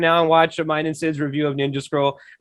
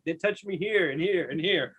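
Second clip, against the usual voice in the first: mock hushed confession; 2 semitones lower, 11 dB quieter than usual. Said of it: "tell my mom and dad".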